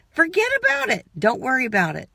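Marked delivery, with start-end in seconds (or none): 0.1-1.1 high dismissive exclamation. Retold or imitated.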